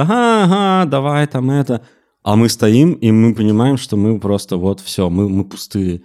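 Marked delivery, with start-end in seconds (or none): 0.0-1.8 high, cheery clown patter; chirpy mock clown; hospital clown voice. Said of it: "играть этих больничных клоунов".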